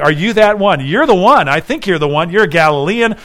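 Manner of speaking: insistent, lightly dramatized recognition; acted accusation. Relative of Malchus recognizing Peter, mildly acted accusation. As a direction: press the point in quick, emphatic bursts.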